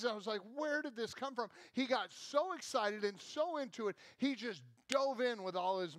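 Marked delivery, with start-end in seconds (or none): 0.6-1.5 amazed question. Retold or imitated. Father amazed at treehouse plans.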